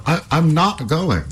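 slow, firm, lightly voiced hero; defiant youth. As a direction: refuse her steadily. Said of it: "cried Halvor".

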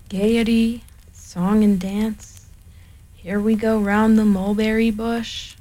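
slow, sarcastic mope; gloomy Eeyore. Acted. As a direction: drag out the words of gaiety sourly. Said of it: "went on Eeyore gloomily".

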